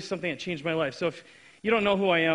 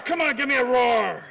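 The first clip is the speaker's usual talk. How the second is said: hyping shout; 6 semitones higher, 5 dB louder than usual. Real, not acted. Hyping crowd through megaphone.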